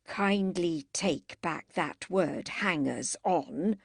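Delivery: cold and calm with menace; ominously calm. Acted. Helen demanding her sister retract the word, ominously calm. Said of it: "ominously calm".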